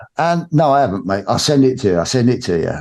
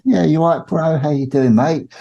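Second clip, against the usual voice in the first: imitating Cobra; 7 semitones higher than usual. Voicing Cobra on phone call.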